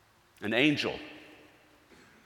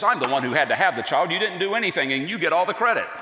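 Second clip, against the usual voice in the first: louder, higher playful complaint; mock-indignant wife; 6 semitones higher, 4 dB louder, faster than usual. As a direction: huff about getting no credit, half joking. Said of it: "It makes Mary so mad".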